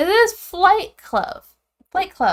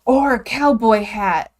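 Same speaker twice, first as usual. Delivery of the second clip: excited; 7 dB louder than usual. Real, not acted. Sudden idea after gasp.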